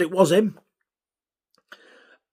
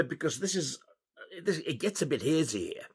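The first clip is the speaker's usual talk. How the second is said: whispered aside; 12 dB quieter than usual. Real, not acted. Aside about hazy memory.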